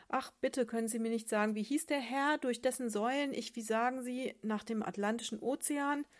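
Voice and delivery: pleading little sardine. Acted. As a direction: ask sweetly, a little breathless to know.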